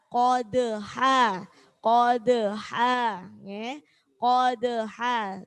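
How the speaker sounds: "Kodeha" slow with an extra e and ha after the dal; wrong added vowel. Shown as a demonstration. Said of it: "memantul tapi tidak pakai e". ("Kodeha" contoh salah, ada tambahan e)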